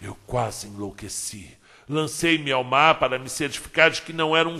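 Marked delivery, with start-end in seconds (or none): 0.0-1.6 hushed disbelief. Acted. Narrator overwhelmed on seeing lost girl.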